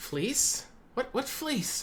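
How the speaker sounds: very high, tiny, little voice. Game master voicing a character speaking up behind the players, small voice. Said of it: "you hear a small voice behind you".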